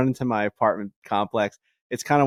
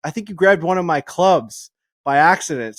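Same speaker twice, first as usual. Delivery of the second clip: high, loud call across the lot; 7 semitones higher, 6 dB louder than usual. Retold or imitated. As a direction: shout after him, half alarmed. Mike running out calling Rob.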